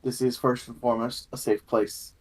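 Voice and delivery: measured, scripted game master's opening address; formal session-opening monologue; prepared welcome speech. Acted. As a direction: welcome the players with a composed, rehearsed speech.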